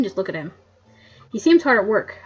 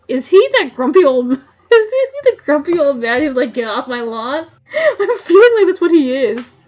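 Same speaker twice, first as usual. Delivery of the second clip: amused laughing; 5 semitones higher, 10 dB louder than usual. Real, not acted. Laughing about grumpy character.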